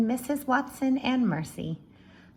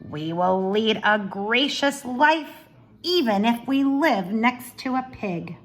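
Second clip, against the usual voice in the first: bossy Eugenia; 7 dB louder than usual. Acted. Eugenia voiced in read-aloud.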